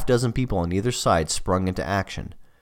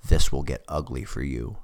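deep, menacing voiceover growl; low trailer voice threat; horror trailer voice; 5 semitones lower than usual. Acted. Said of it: "deep and low like a movie trailer voiceover".

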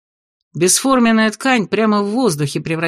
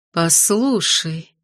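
softly; much slower than usual. Acted. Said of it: "мягко начала Шидар".

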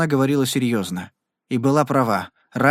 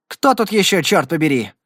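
higher, louder impatient demand; 3 semitones higher, 4 dB louder than usual. Acted. Rider in the dark demands who is there, impatient. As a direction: fire it off annoyed. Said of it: "нетерпеливый голос".

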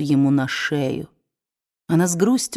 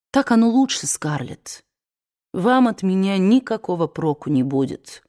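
weary gentle man. Acted. Ashley explaining to Scarlett.

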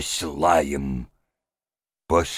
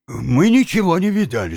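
higher, loud women's voice denying together; women in unison; 11 semitones higher, 5 dB louder than usual. A narrator's reading. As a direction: deny it flatly, both at once. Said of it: "сказали обе женщины в один голос".

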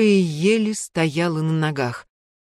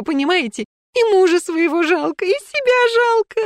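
истерика; 7 semitones higher, 4 dB louder than usual. Acted. Истерика Снежаны продолжается.

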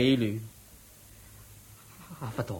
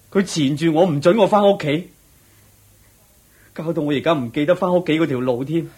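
distressed pleading; 4 semitones higher, 6 dB louder than usual. Acted. Confesses torment to Buddha.

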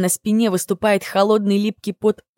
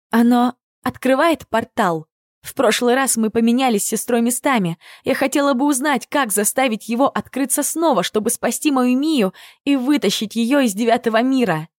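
quick, higher urgent pleading; talking fast; 4 semitones higher than usual. Acted. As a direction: rush the words out, pushing past fear. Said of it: "Начинаю быстро говорить". (быстро и взволнованно)

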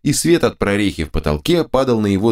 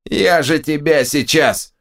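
threatening ogre; 7 semitones higher, slower than usual. A narrator's reading. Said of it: "Он размахнулся дубиной".

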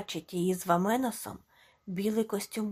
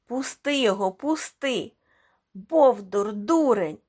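furious shout; 6 dB louder than usual. A narrator's reading. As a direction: scream at the brute to let go. Friends scream at the bully.

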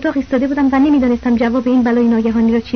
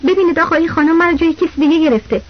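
excited outcry. Acted. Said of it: "داد کشیدم".

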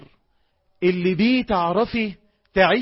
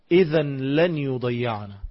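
calm trust; 5 semitones lower, slower than usual. Retold or imitated. Hagar's trusting reply.

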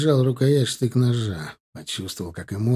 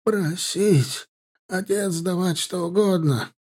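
high, hushed broken Russian; bargaining captive; 7 semitones higher, slower than usual. A narrator's reading. Captive offering his father's ransom to the soldier.

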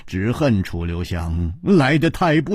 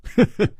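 light chuckle; 10 semitones higher than usual. A narrator's reading. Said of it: "笑着说".

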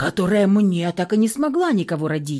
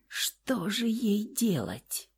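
hushed despair; 10 dB quieter, much slower than usual. A narrator's reading. Dazed after the blow.

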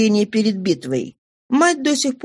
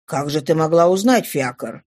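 questioning father; 4 semitones lower than usual. Acted. Father questions his daughter.

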